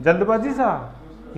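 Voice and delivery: जल्दबाजी Shah drawn out slowly as a joke guess; slow, playful wrong guess जल्दबाजी; mock quiz answer, very slow; teasing wrong answer. Shown as a demonstration. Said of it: "कौन से शाह".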